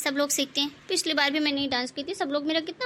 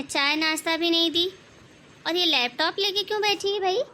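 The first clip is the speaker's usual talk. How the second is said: nagging mother-in-law. Acted. Mother-in-law scolds the bahu for sitting with a laptop. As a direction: nag the daughter-in-law like a bossy saas.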